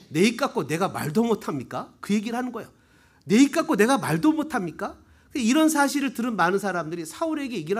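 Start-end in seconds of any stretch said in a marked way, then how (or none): 0.1-1.9 lower, held-back imitation of a protest; mild retort. David answering his scolding brother, lower and mildly protesting. 3.3-5.0 livelier, raised imitation of a protest; indignant retort. David protesting to his older brother, retold more indignantly.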